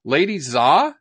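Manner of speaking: "Lady Xia" said as "Lady Zah", tentative, rising; anglicized "Xia" with a z sound; foreigner speaking mandarin. Real, not acted. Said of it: "my Chinese isn't very good".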